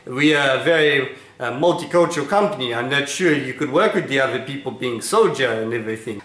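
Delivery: put-on a boss with a heavy Israeli accent. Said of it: "he has a heavy Israeli accent".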